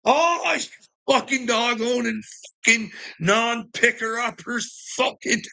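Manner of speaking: high furious yell, cursing; mad shout. Retold or imitated. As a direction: blow up at the dog owners, half-mock. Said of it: "I was like".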